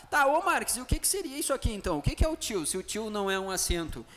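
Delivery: lightly acted pupil interrupting with a question; student's question. Acts out a student's question to himself.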